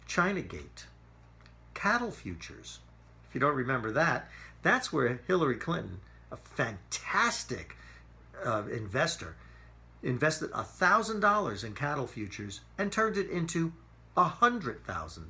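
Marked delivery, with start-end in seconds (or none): 6.3-9.3 sarcastic praise. Real, not acted. Sarcasm about Hillary's investing.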